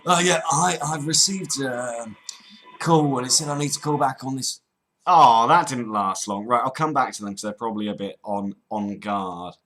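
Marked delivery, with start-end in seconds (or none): 0.0-4.6 put-on Cockney caller; Cockney accent. Prank caller returning an IRS call, Cockney accent. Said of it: "a pretty decent Cockney accent".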